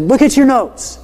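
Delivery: high-pitched exasperated demand; insist, losing some patience with a student; irritated teacher, pitch pushed up. Retold or imitated. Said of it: "I'm getting a little irritated now".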